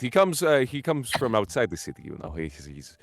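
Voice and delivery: flustered host. Acted. Nervous host answering guests' praise of the chef, high and rushed. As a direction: gush nervously about the chef.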